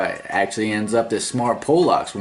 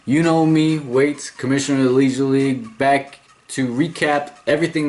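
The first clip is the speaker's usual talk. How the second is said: high, energetic host greeting; show-opening announcer; 7 semitones higher than usual. Acted. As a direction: kick off the show with a big, raised welcome.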